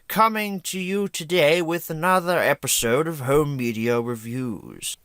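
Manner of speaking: slow, theatrical villain greeting; lightly put-on villain, slow and grand; Vlad Plasmius voice. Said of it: "my bad Vlad Plasmius impression".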